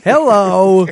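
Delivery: loud squawky duck hello; Donald Duck voice. Pretend. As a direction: quack it out like a cartoon duck. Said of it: "Sounds like Donald Duck when I do it".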